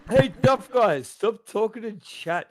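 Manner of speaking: mock scolding.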